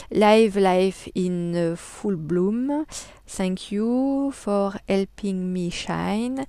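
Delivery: slow, careful English read with a French accent. Shown as a demonstration. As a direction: spell out the English slowly in a proudly French accent. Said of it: "mon superbe accent anglais". (anglais lent avec un fort accent français)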